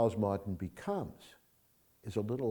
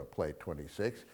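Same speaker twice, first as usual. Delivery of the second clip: softer, hushed wrong take of the line; mock whisper; 5 semitones lower, 8 dB quieter than usual. Shown as a demonstration. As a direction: breathe it like a secret, the way Rick does not. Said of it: "Now, he doesn't whisper".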